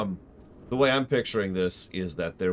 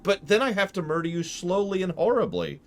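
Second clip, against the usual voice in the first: high, menacing threat; menacing killer voice; 12 semitones higher, 3 dB louder than usual. Retold or imitated. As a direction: threaten them sweetly but darkly. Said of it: "And I'm like".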